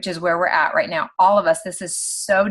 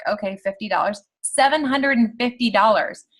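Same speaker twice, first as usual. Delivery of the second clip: surprised; 3 semitones higher than usual. Retold or imitated. Reacting to surprise paycheck.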